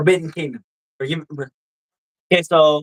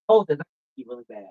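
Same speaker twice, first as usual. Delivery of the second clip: usual speaking voice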